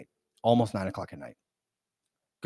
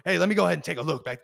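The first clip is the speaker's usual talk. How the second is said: quick, higher-pitched sales patter; expressive salesman; 5 semitones higher, 3 dB louder, much faster than usual. Retold or imitated. Salesman asking to look out back, quick and expressive. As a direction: rattle it off as a breezy salesman.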